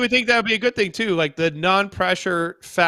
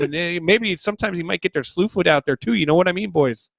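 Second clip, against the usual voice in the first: put-on Canadian accent. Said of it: "Talk with a Canadian accent".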